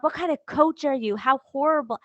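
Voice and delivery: mock self-scolding. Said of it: "I beat myself up".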